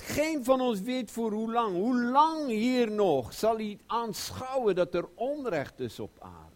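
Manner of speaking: high, loud lament; loud how-long cry, fading at the end. Acted. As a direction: cry out against injustice. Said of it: "Hij roept".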